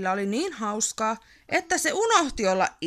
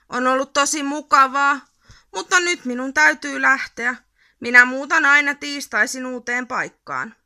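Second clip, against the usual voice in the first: louder, raised, wistful goodbye; lightly voiced Yrmy farewell; 3 semitones higher, 7 dB louder than usual. A narrator's reading. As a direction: tell a friend you must go. Yrmy says goodbye sadly. (haikea jäähyväinen)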